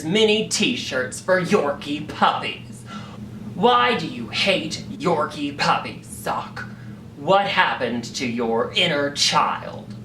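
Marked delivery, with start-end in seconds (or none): none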